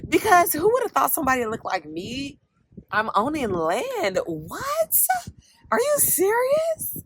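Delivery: high, stunned squeal; can't believe it's real; telling viewers she owns land, in thrilled disbelief; amazed disbelief. Real, not acted. Marvelling at owning land.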